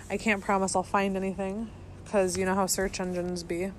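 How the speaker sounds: talking round a lit cigarette; words around a cigarette; cigarette in mouth. Real, not acted. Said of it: "let me light a cigarette".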